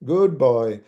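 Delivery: falling approving tone; approval tune. Shown as a demonstration. Lecturer demonstrates approval to infant, falling tone. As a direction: say it like praising a child, pitch dropping. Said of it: "One is approval, ... it's going down, it's falling".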